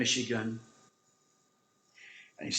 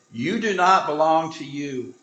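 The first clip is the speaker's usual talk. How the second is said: booming voice; 4 semitones higher, 7 dB louder than usual. Retold or imitated. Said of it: "he hears this voice say".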